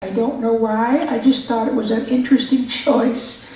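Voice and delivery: put-on high, slow shy kid with odd L's; high-pitched awkward kid character; Carl Weezer. Shown as a demonstration. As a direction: stay in the small, shy cartoon boy, drawling along. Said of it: "so that when he said his L's".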